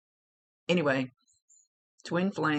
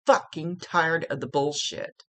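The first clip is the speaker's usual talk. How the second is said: louder, slower, emphatic mock yell; relayed yelling; 3 semitones higher, 5 dB louder, slower than usual. Medium relays a spirit fed up with it all, yelling. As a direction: pass on his yell, hitting each word hard. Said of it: "Oh, now he's yelling".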